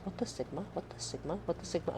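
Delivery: mock whisper. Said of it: "you just hear them whispering to themselves".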